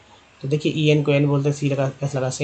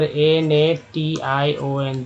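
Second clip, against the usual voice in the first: slow spelling out; much slower than usual. Shown as a demonstration. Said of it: "अगर लिख दें".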